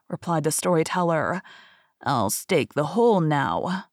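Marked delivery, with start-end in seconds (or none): 2.0-3.9 slow, lower crafty beggar; lightly voiced scheming old man; sly old beggar. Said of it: "said the old man".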